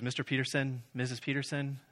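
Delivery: softly voiced sympathy; compassionate. Check-in worker about to give honeymooners bad news, compassionate. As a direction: gently address them before breaking bad news. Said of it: "her eyes just have such compassion".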